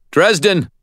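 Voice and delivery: high, loud urgent call. A narrator's reading. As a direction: shout to get him moving. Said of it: "Martin called".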